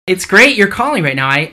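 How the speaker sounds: excited loud phone talk. Real, not acted. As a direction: project it down the line. Talking loudly on the phone.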